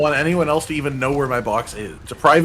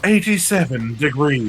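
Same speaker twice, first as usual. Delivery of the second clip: slow talk show guest; slower than usual. Acted. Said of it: "you talk like that on it".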